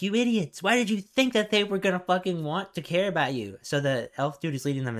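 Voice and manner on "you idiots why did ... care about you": higher, jeering mock laugh-shout; mocking orc. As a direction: taunt the fools, half-hearted. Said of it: "And it's like".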